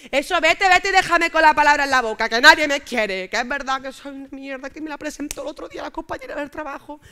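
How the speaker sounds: high, loud martyr wail; self-pitying wail. Retold or imitated. Telling boyfriend to leave, loud high self-pitying wail.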